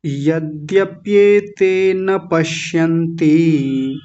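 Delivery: slow, even chant of the whole verse; slow Sanskrit verse recitation; flowing recitation. Shown as a demonstration. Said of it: "प्रवाह से उच्चारण देखिए".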